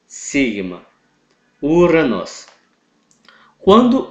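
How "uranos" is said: "Uranos" said "úranos", with OY as U; "Uranos" as oo-ra-nos; Greek pronunciation. Shown as a demonstration. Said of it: "Então formará U". ("Uranos" pronunciado "úranos")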